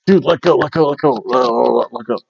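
hurried, tumbling repeated plea; mock urgent pleading. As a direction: beg frantically to be released, play-acted. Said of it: "if it hurts you, you're like".

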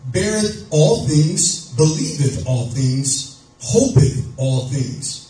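slow, measured verse reading; scripture reading. Acted. Preacher reading verse seven to the congregation, slow and measured. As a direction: recite each phrase deliberately, drawing it out.

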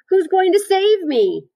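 high, loud, drawn-out plea; desperate wail. A narrator's reading. Wilbur asks Charlotte who will rescue him, wailing. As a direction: wail the question in a piglet's squeal.

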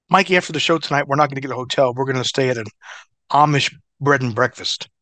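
lightly voiced wrestler; a hint of Cactus, cheerful. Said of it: "doing the Cactus voice".

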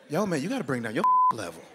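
lightly put-on bro voice telling him to chill; a hint of a laid-back coworker; mock coworker voice. Coworker telling him to bring his level down, lightly mock voice.

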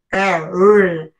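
"R" growled as a curled English R; English R sound. Shown as a demonstration. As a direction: demo the curled R twice. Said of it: "es así como teacher".

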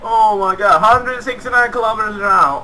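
amazed. Real, not acted. Amazed at his own goal.

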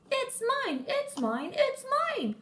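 mimicked shouting. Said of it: "I can hear you shouting".

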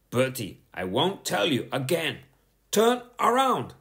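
building from firm to a high, loud thunder. A narrator's reading. Teacher ordering Bertie to turn around, building to a shout. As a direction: let it swell into a booming order. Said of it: "thundered Miss Boot".

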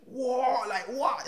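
high, surprised double take; stunned what. Retold or imitated. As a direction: react in disbelief, pitch shooting up. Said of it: "And everyone was like".

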